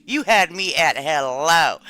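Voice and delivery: low, slow, swooning delivery; slow romantic line. Pretend. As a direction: croon it to a lover. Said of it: "quoting a movie line".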